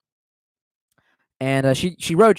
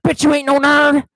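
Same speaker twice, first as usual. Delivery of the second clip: mock teasing shout; 11 semitones higher, 6 dB louder than usual. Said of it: "I was like".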